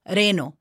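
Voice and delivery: reno with a short, weak R; reno, R only lightly tapped; unrolled R. Shown as a demonstration. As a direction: say reno without trilling the R. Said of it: "Don't go".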